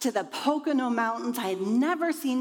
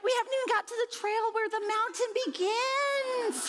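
laughing; 11 semitones higher than usual. Retold or imitated. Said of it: "They're like".

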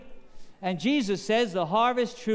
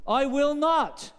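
flat refusal; 7 semitones higher, slower than usual. Acted. Defiant son refuses father.

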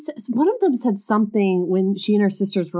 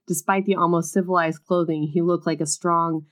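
reading a romance novel aloud; story reading. A narrator's reading. Reading a book passage aloud to her co-host, story narration. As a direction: narrate the scene, lightly dramatic.

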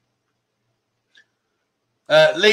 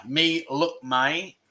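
quiet repeat; 2 semitones lower, 8 dB quieter, much slower than usual. Shown as a demonstration. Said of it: "What am I asking her".

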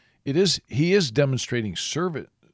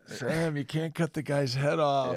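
mock scolding; 3 semitones higher, slower than usual. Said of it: "Why would he got his ear?".

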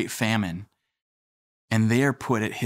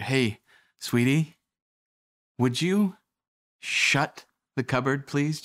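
imitating a wife's sweet, drawn-out ask; slow, higher-pitched mock sweet request; polite request; 3 semitones higher, slower than usual. Wife asks husband to shut the cupboard, politely.

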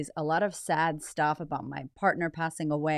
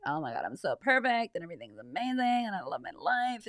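fake perfect woman; 4 dB quieter than usual. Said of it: "be like".

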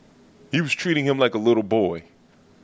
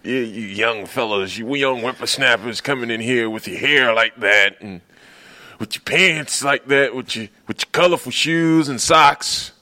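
Kenyon Martin. Retold or imitated. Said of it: "That's what Kenyon Martin sounds like".

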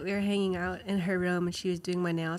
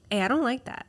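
higher, louder, firm objection; firm daughter; 5 semitones higher, 5 dB louder than usual. Retold or imitated. Quoting the daughter telling mom off, higher and firm. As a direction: say it like a kid standing up for herself.

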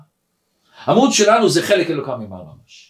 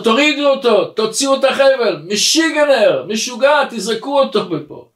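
commander's orders; 6 semitones higher than usual. Acted. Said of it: "והמפקד אומר".

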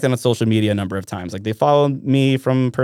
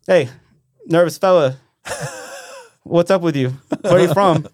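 imitating Big Earl; 7 semitones higher than usual. Voicing Big Earl's heckle.

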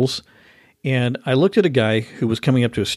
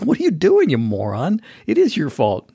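retold angry yell; 6 semitones higher than usual. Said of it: "I was like".

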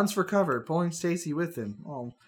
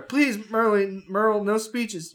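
pleading; 4 semitones higher, slower than usual. Acted. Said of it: "you cry".

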